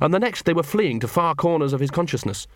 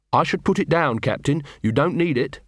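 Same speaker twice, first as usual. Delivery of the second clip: put-on gentle, as to a child. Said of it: "like someone speaking to a child".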